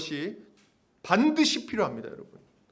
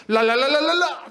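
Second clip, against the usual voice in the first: rapid "la-la" babble rising in pitch; mock someone praying in tongues, louder at the end; mock tongues prayer; 7 semitones higher, 6 dB louder than usual. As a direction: parody of unintelligible prayer. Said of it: "못 알아듣는 말로 기도도 하고".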